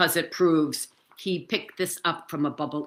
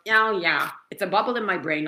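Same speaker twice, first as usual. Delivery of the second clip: skeptical, higher-pitched mock agreement; inner skeptic; 4 semitones higher than usual. Inner skeptic answers the cured claim, skeptical. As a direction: play your own doubting inner voice. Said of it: "the skeptic in me goes".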